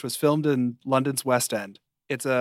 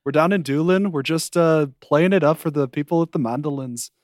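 put-on playful Irish accent; 3 semitones higher, 4 dB louder than usual. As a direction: keep riffing in an Irish accent. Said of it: "get into an Irish accent".

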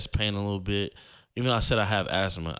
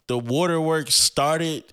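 slow, high and louder, voice welling up; emotional emphasis; 7 semitones higher, 4 dB louder, slower than usual. Real, not acted. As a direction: stretch it out as the tears come. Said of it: "I immediately started crying".

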